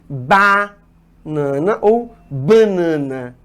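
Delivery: slow "banana" with oral "bá", then nasal "bã"; "banana" twice, open first syllable, then nasalized; optional nasalization contrasted. Shown as a demonstration. Teacher says you choose either one, pronunciations contrasted slowly. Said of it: "a pronúncia passa a ser opcional".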